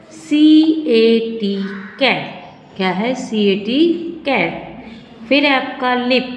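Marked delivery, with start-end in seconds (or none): 4.2-5.3 whispered word. Shown as a demonstration. Teacher repeats word softly.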